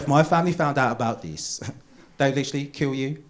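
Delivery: lightly amused, relishing the threat; gleeful warning. Acted. Girlfriend warning about her family, mildly gleeful. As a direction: let a little giggle slip into the warning. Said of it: "they take an insane amount of pleasure in telling you".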